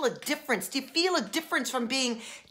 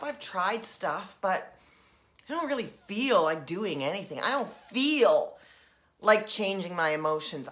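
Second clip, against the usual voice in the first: acting bored; 3 semitones lower than usual. Shown as a demonstration. Coach voicing the boredom step, listless and low. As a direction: drag it out with no interest. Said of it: "Let's go to boredom".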